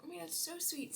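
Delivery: high, soft gushing delight. Retold or imitated. Touched by the neighbour's note, high gushing. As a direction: melt a little at the sweet note. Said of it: "And so I was like".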